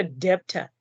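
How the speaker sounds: the wrong "debtor", b pronounced; debtor with sounded b. Shown as a demonstration. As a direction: put an audible b into debtor. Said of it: "So it's not a".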